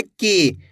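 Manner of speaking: की with a long ee; drawn-out vowel. Shown as a demonstration. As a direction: stretch the ee of की. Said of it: "खींच के पढ़ना है".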